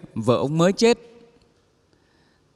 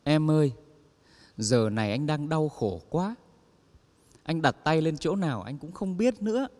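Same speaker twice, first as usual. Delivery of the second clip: mock whimpering; 5 dB quieter than usual. Widower pleads with his sister-in-law, hammed-up sob voice. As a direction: fake a tearful widower excuse. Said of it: "ông mếu máo".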